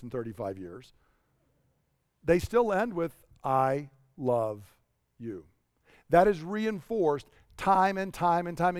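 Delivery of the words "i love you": low, gentle quoted endearment with a small pause; tender sign-off. Retold or imitated. Spouse ending an argument with love, tender sign-off. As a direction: say it softly, as a closing word. Loving words that end arguments.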